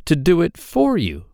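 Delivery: a droll little man, sly and teasing; hobgoblin voice. Acted. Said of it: "said the hobgoblin".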